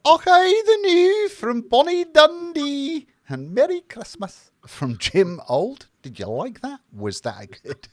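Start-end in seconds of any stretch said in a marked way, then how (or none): 0.1-5.9 put-on big high Scottish accent reading a comment. Host reading a viewer's Scottish comment, in a hammed-up Scottish accent. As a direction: put on a loud Scots voice for the viewer. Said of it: "was that a good accent?".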